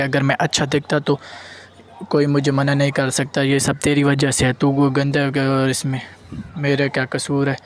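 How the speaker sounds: half-acted yell of blame, no pitch jump; angry outburst. Son yells at his father.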